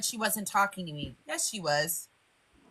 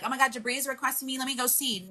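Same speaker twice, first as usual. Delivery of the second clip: higher, softer mock-eager quote; mock eagerness; 4 semitones higher, 4 dB quieter than usual. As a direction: lightly imitate someone eager to obey. Mocking an eager response to request.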